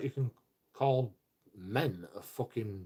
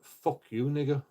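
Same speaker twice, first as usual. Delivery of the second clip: mock-angry burst, louder and higher; angry outburst; 5 semitones higher, 5 dB louder than usual. Showing how someone just angry swears, angry. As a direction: act out a brief flash of anger. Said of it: "You're just angry".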